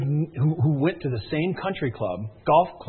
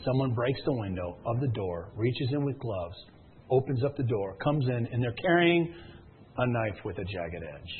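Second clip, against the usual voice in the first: low, soft thriller storytelling; hushed suspense; 5 semitones lower, 6 dB quieter than usual. Retold or imitated. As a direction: build dread quietly, step by step. Suspense build-up of break-in scene.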